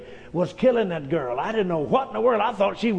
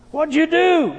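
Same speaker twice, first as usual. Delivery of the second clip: louder, higher frantic ask; loud urgent question; 8 semitones higher, 4 dB louder than usual. Retold or imitated. Father asking his wife what she did, frantic. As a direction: demand an answer urgently.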